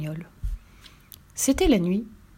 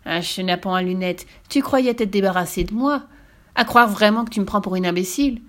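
witch voice. Acted. Witch scolds Pierre.

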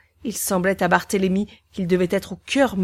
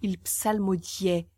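low slow tone; 2 semitones lower, 7 dB quieter, slower than usual. A narrator's reading. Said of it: "D'un ton bas et lent".

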